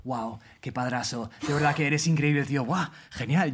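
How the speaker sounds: soft, slow gushing praise; gushing ladies. Retold or imitated. Passing ladies gush over a stoned dad, soft and slow. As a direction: coo over him like an impressed lady. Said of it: "pasan unas señoras y en plan".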